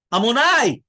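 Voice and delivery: "Amonai" said loud and high, then a clear stop; pause after it. Shown as a demonstration. Rabbi showing the class where to pause, pausing after "Amonai". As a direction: land on "Amonai" and hold a full pause before going on. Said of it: "You have to pause".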